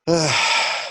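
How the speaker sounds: heavy, resigned sigh; exasperated sigh. Acted. Character sighs before grudging task.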